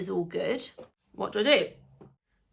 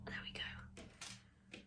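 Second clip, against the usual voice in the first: slow soft whisper; 20 dB quieter, much slower than usual. Real, not acted. Finishing the swab, a slow whisper to herself. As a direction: whisper it slowly.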